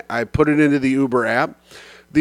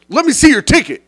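much higher, exasperated imitation of a driver; irritated mock yell; 11 semitones higher, 4 dB louder, faster than usual. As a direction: repeat it as if fed up with not being heard. Driver repeats request, fed up.

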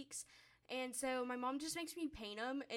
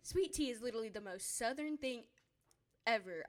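a light Southern twang on "Southern thing ever"; Southern accent; 4 dB louder than usual. Shown as a demonstration. Teen girl playfully says it with a Southern accent. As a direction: lean into a mild Southern accent. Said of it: "I say that with a Southern accent".

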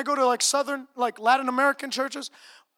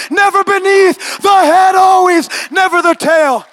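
shouted, slow, louder and higher preaching; fiery preaching; 7 semitones higher, 17 dB louder, slower than usual. Acted. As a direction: build the declaration to a roaring climax.

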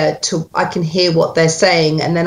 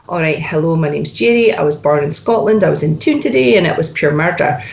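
Scots accent; 3 semitones lower, faster than usual. Shown as a demonstration. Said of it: "going into my Scots accent".

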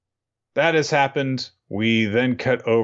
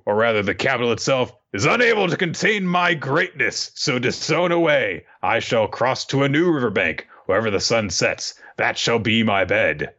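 lightly hammed-up proud samurai, higher; grand Oden; 5 semitones higher than usual. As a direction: boast it like a pompous hero. Oden grandly accepts banishment.

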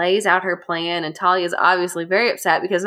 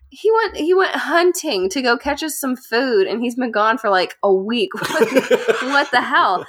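high exasperated queen; 5 semitones higher than usual. Retold or imitated. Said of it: "She's like".

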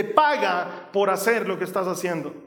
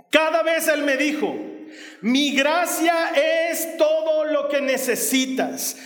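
full-force preaching; 3 semitones higher than usual. Acted. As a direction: proclaim it from the pulpit with fervour.

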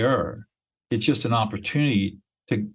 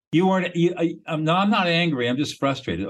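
flustered client; 6 semitones higher than usual. Acted. Flustered client denying anger.

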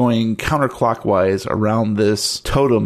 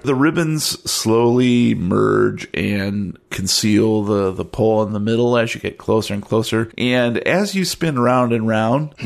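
game master's scene setting. Acted. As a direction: draw out the description of the scene.

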